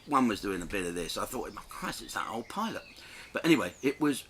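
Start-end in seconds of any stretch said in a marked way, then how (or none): 1.5-2.8 hushed whisper to himself. Retold or imitated. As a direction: breathe it out under his breath.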